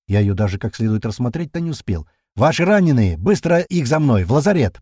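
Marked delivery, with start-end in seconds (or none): 2.4-4.8 commanding. A narrator's reading. Girl commands them to carry the wounded, loud firm. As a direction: take charge of the wounded. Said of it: "продолжает она командовать".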